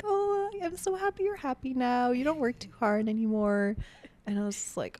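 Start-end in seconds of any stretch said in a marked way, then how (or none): 0.0-3.8 high-pitched imitation of a sweet grandma. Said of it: "she was just so sweet".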